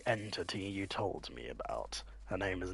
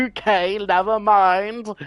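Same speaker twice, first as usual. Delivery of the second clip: laughing; 11 semitones higher, 15 dB louder than usual. Real, not acted. Laughs, takes back joke.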